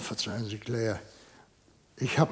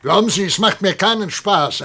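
empört; 5 semitones higher, 7 dB louder than usual. Acted. Empörter Professor droht mit Polizei.

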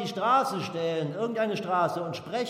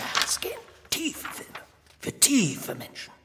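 mocking tone; 5 semitones higher, 4 dB quieter than usual. Minister mocks idealistic films.

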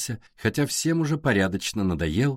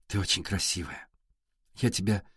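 softer, lower tender words; tender hush; 3 semitones lower, 6 dB quieter than usual. Acted. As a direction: say it gently, almost whispering. Valya tender to Alisa.

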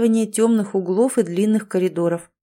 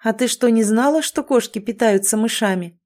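surprised; 3 semitones higher than usual. Acted. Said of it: "удивился парень".

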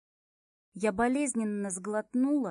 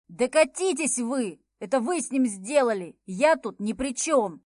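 shouting; 7 dB louder than usual. A narrator's reading. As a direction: throw the blame off at full volume. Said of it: "закричал Виктор".

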